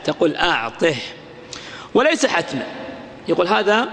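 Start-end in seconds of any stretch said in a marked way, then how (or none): 0.4-0.9 "أعطه" ending on breathed -ih; ha of silence. Shown as a demonstration. Teacher reciting the pause example, final h. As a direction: close "أعطه" on an audible h. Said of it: "بها السكت".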